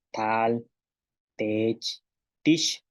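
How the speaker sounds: plain unglottalised T in "Tal, tech, tish"; T without glottal. Shown as a demonstration. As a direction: say "Tal, tech, tish" with an ordinary, non-ejective T. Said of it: "la T sin glotal".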